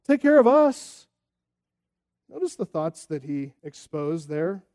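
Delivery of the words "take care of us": slow, pushy, rising plea; mock demanding crowd. Crowd demanding Jesus care for them.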